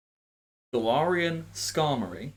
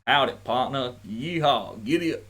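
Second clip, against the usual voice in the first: stereotypical male Southern. Shown as a demonstration. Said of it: "a very stereotypical male Southern".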